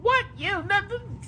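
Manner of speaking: high, soft whimpering squeak; a hammed-up crying baby voice; mock whimper.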